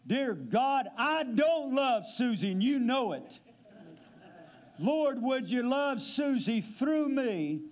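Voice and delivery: a mild mock outcry to God; honest pleading prayer; imitating a desperate cry. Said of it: "cried out".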